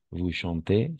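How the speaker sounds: "chantez" ends on an "é" sound; silent Z. Shown as a demonstration. Teacher shows the pupil the ending, silent Z. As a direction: leave the final z of "chantez" unsounded. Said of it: "la Z tampoco se pronuncia".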